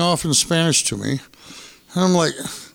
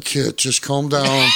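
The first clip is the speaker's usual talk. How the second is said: calm, reassuring Batu; 4 semitones lower, slower than usual. Retold or imitated. Batu calming Kit.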